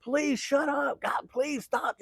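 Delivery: high, pleading mom voice; imitating the mom. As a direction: squeak it out like a frazzled mom. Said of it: "She's like".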